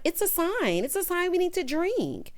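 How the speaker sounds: high, insistent imitation; mock excited bride. Bride after champagne spills, mock excitement. Voicing the bride wanting drinks.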